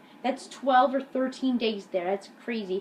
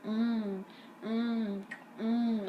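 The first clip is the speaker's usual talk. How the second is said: drawn-out hummed mock groan; imitated groaning; 5 dB quieter, much slower than usual. Eric disrupting science class, imitated soft groans. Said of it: "he purposely made groaning sounds".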